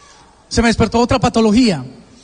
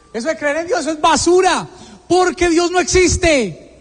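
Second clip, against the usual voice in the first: raised-pitch angry declaration, not shouted; retold indignation; 6 semitones higher than usual. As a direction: reenact an angry rejection, pitched up. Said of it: "me dio tanta ira". (indignación recreada, en tono alto)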